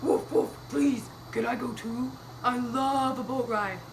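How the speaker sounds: woof, then beg as a puppy; pleading puppy. Acted. Puppy asks Mister Gumpy for a ride, doggy pleading. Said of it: "Puppy said".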